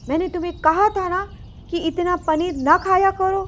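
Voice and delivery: mild acted scolding. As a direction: tell off a greedy child. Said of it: "वह उसे डांटने लगती है".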